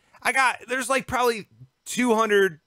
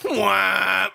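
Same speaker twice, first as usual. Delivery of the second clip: mock jeering wail. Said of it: "and he goes".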